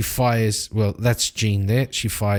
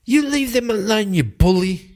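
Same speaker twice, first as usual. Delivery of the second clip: high, loud scolding of a bully; angry shout; 11 semitones higher, 4 dB louder than usual. Acted. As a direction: charge in shouting at him. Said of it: "She runs up to him".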